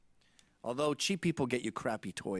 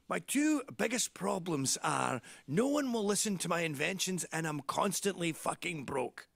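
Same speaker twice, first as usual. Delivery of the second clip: imitating dad; 4 semitones higher than usual.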